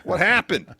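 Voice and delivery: high, loud hammed-up bewilderment; mock shocked shout. Co-host imitating a wrestler who just hid, mock shout. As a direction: yell it in exaggerated fake surprise. Repeats acted feigned ignorance.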